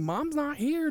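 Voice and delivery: loud, high-pitched telling-off; retold exasperated scolding. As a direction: retell snapping back at a panicking relative. Retold exasperated answer to screaming brother.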